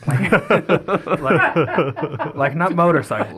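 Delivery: laughing through the words; can't stop giggling mid-line. Real, not acted. Laughing at bicycles reveal.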